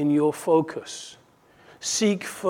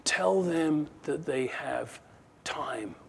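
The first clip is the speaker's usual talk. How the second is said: slow, with a soft drop on "time"; a hint of a demon's sly suggestion, pause before "time"; lightly voiced scheming demon; 5 dB quieter, slower than usual. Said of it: "one of them says".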